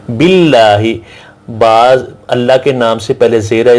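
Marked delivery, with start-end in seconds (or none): 0.1-0.8 "باللہ" with a light, thin double L; thin Allah lam. Shown as a demonstration. Teacher showing the kasra rule, "باللہ" with thin L. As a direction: say "باللہ" as bil-laah, the L not heavy. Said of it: "اس کو بریک پڑھا جاتا ہے".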